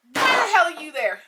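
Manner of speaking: high, heated yell over loud music. Retold or imitated. Yelling at Joe Myron over loud music, angry yell. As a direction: yell it up high, demanding an answer. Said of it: "I'm yelling because, you know, the music is loud".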